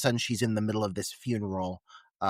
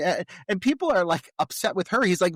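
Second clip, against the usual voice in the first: normal talking voice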